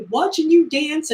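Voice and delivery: high, dazed repeat of her line; dreamy girl. Retold or imitated. Girl still gushing at Tony, high and dreamy. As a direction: sigh it like a smitten fan. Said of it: "she's like".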